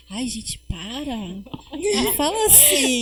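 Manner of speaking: a hint of a fretting mother; mother pleading.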